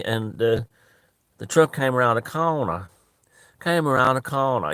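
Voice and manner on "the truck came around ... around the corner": "came around the corner" said, then repeated for emphasis; emphatic repetition. Retold or imitated. Catfish telling how he got caught, emphatic repetition of "came around the corner". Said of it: "You always repeat like that".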